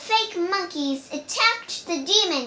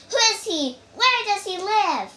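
a child's mock furious demand, a little louder; 5 semitones higher, 4 dB louder, faster than usual. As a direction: raise the voice in mild anger. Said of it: "Wukong was furious".

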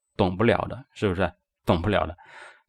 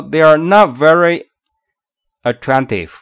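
"not" hit firmly, "attractive" stressed after a pause; teacher's model with "not" standing out; 3 semitones higher, 5 dB louder than usual. Shown as a demonstration. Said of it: "有两个地方需要重读".

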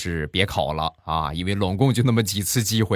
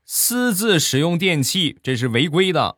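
raised, lecturing manager voice after a big meal; scolding manager; 5 semitones higher, 3 dB louder than usual. Retold or imitated. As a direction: wag a finger and scold like a full-bellied boss. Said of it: "一边打着饱嗝， 一边说". (吃饱了训人的经理腔)

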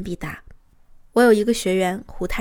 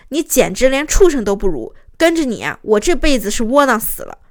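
raised-voice acted insult; retold anger; 4 dB louder than usual. Wife lashing out at her husband, re-enacted anger. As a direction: blurt it out as a fed-up, furious wife. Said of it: "我当时更生气了".

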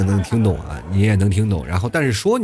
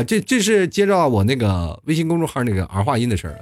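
ordinary delivery

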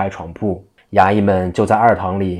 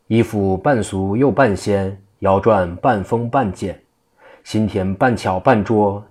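lightly chanted recitation of a poem; murmured verse. Acted. Jigong reciting his poem to himself as the officials approach, lightly chanted. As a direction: recite the verse half to himself, in a sing-song way. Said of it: "正听济公喃喃说道".

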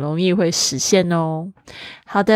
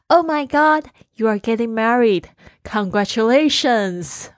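hammed-up gushing at the news, higher; mock excitement; 4 semitones higher than usual. Students pretending to congratulate the teacher, mock excited. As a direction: play it as a big bright congratulation. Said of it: "你们就说".

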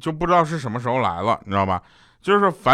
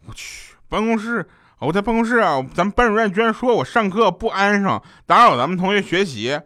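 higher, indignant complaining classmate; mock angry classmate; 6 semitones higher than usual. Deskmate fresh from the office, griping in mock anger. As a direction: play the annoyed deskmate griping. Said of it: "就很生气，就跟我说".

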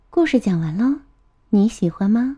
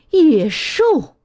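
higher, sharp motherly rebuke; mother's cry of reproach, pitched up; scolding; 8 semitones higher than usual. A narrator's reading. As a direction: scold a naughty child. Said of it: "妈妈呵斥道".

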